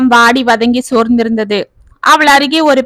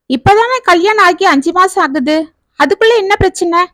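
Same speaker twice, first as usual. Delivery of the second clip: 1 surprised; 6 semitones higher than usual. A narrator's reading. Mother-in-law hears of trouble.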